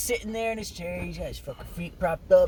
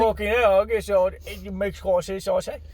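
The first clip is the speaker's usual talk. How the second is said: put-on British accent; 2 semitones higher than usual. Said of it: "he's a bit overplaying".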